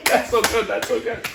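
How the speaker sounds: high, loud fake-amused gushing; mock talk-show host praise; Jimmy Fallon. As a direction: gush through a put-on laugh. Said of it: "fake laugh at each other".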